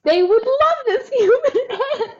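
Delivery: high, slow proud puppy voice; lightly voiced eager pup; eager dog. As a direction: play the dog bursting with pride. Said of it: "was like".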